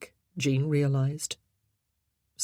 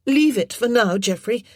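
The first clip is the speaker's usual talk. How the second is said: calling up; 6 semitones higher, 7 dB louder than usual. A narrator's reading. Jean calling up to boy.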